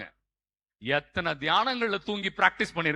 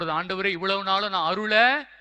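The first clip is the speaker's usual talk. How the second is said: pleading prayer; 5 dB louder than usual. Acted. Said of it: "ஆண்டவர்கிட்ட நம்ம கேட்க போறது". (கெஞ்சும் ஜெபக் குரல்)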